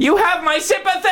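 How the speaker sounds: very high, gleeful squeal; squeaky monster voice. Acted. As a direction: crow it like a smug imp.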